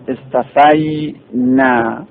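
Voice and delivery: استفینا drawn out slowly, ending in a rise; slow correct form. Shown as a demonstration. (استفینا را آهسته و کشیده با «ی» بگو)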